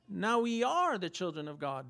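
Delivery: "are" lifted above the other words; stress on ARE. Shown as a demonstration. Preacher showing the verse's inflection, stress on "are". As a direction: lean hard on the word "are". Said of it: "let's put the inflection on it".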